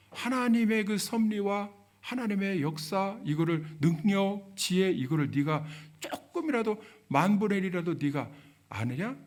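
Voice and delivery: 책망. Retold or imitated. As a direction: press the challenge, then drop on the question. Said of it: "이렇게 이제 책망을 하시니까". (따져 묻듯 책망하는 말투)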